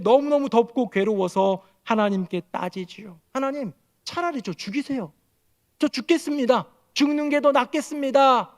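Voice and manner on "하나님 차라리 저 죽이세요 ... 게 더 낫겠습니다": high, pleading accusation; bitter protest. Acted. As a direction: demand death out of misery. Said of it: "라고 얘기하면서 따질 때에".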